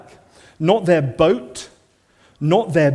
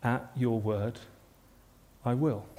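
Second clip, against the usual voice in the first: hushed devotion; 6 semitones lower, 10 dB quieter than usual. Acted. Simon's answer to Jesus' call.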